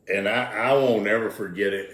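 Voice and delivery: chuckling through the words; laughing. Real, not acted. Telling the interviewer about the wreck, laughing. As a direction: let a real laugh break into the line.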